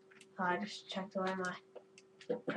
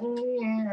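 higher, drawn-out mock dolphin squeal; dolphin call imitation; 5 semitones higher than usual. Gamer retelling the dolphin he heard, imitated squeal. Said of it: "I heard a dolphin again. It's like".

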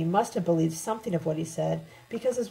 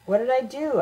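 higher, indignant narrated question; angry protest; 6 semitones higher, 4 dB louder than usual. A narrator's reading. Accused narrator answers Debbie and Lem, angry protest. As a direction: protest the accusation in a raised pitch. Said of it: "I asked angrily".

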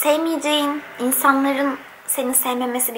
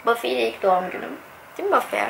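normal talking voice

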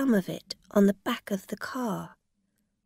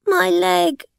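pained cry; 11 semitones higher, 9 dB louder than usual. A narrator's reading. Injured woman in pain.

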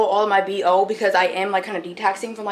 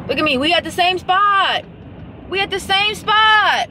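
higher, slow, exasperated; annoyed scolding; 8 semitones higher than usual. Real, not acted. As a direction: rub it in, slowly and pointedly. Scolding a driver who raced ahead.

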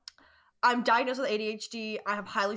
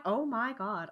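imitating friends' voices; 5 dB quieter, slower than usual. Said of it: "all my friends talk like this".

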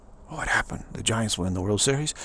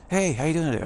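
higher, louder, bright hey; chirpy greeting; 6 semitones higher, 4 dB louder, faster than usual. Pretend. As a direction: call it out cheerily to a passerby. Acted greeting exchange.

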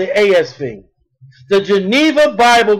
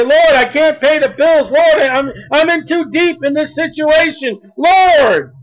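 pleading prayer; 4 semitones higher than usual. Retold or imitated.

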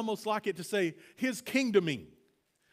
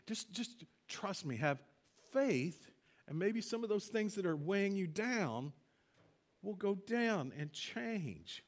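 soft, slow reassuring voice; gentle reassurance; 5 dB quieter, slower than usual. Retold or imitated. Jesus gently reassuring the anxious listener, soft and slow. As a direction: ease them into trust, quietly. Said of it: "he's going".

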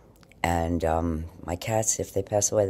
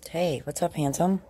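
much higher cooing pet voice; 9 semitones higher than usual. Real, not acted. Owner greets her cat in much higher baby talk. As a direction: coo lovingly at the cat.

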